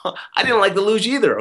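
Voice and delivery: a real laugh through the confession; giggling as he admits he hated the luge too. Real, not acted. Laughing at his own admission.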